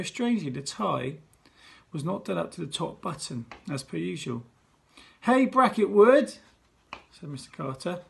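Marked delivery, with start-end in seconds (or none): 5.2-6.3 high, loud, slow TV presenter greeting; head teacher greeting school like a TV show; showbiz host. Acted. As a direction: work the crowd like a game show host.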